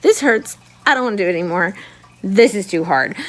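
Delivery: begging to stop, hurting; pained pleading. Retold or imitated. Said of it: "I kept saying".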